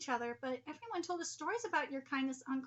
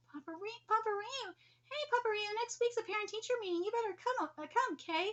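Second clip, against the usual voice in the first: put-on child voice; 6 semitones higher than usual. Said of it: "let me call you Papa Ryu".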